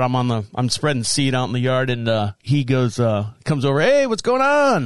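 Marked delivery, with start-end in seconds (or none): 3.8-4.8 high, drawn-out imitation of a friendly hello; hearty neighborly greeting. Kid's dad greeting neighbor in the yard, hearty. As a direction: call it out slowly and higher, like a neighbor.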